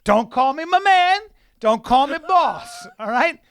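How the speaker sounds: loud mock rant. Real, not acted. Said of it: "ranting at co-host".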